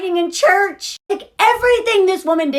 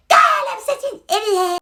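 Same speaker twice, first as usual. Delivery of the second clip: higher, whiny self-reproach; mock self-pity; 7 semitones higher than usual. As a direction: Carrie after throwing the pan. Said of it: "and was like".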